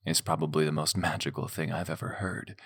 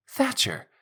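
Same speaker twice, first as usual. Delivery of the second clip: high, loud alarmed cry; shouting; 3 dB louder than usual. Acted. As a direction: shout his name in alarm. Alarmed protest at his words.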